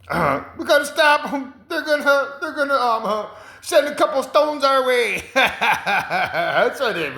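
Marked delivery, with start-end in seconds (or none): 0.6-5.2 much higher, urgent mock panic; alarmed high voice. Man warning others about aliens, in a high mock-panicked voice. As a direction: squeal the warning like a frantic movie extra.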